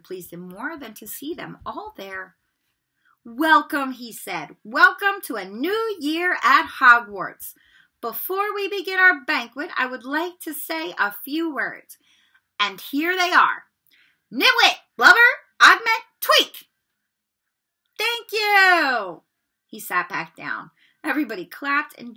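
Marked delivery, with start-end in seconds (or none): 3.2-3.9 higher, louder, benevolent headmaster; the headmaster greeting his students; Dumbledore. A narrator's reading. 4.6-19.2 put-on higher, slow, whimsical old headmaster; the eccentric headmaster's short speech; Dumbledore. A narrator's reading.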